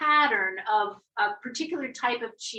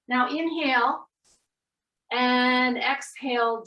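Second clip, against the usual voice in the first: guided breathing. Acted.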